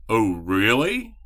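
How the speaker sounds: drawn-out, intrigued "oh, really?" with a rise; imitated excited interest. General manager hearing the star might sign tomorrow, imitated excitement. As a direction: mimic someone slowly perking up at good news. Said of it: "you could tell he was excited".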